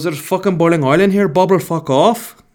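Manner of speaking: loud, high ranting in a put-on accent; mock angry accent. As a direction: explode at him, hammed up. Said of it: "he's speaking like this to this guy".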